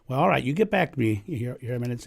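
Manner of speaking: a hint of Southern drawl; lightly drawled Southern sign-off. Colonel Sanders takes leave of the Pope in a light Southern drawl. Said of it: "in a southern drawl".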